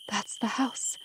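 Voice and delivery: hushed and very soft, in disbelief; soft, awestruck murmur; astonished whisper. A narrator's reading. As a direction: whisper it, stunned by the sight. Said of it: "in an astonished whisper".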